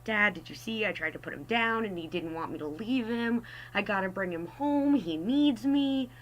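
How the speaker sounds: rising, slowing plea to dad; pleading kid. Retold or imitated. Kid pleading with his dad to keep the lizard, whiny. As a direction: beg like a small child.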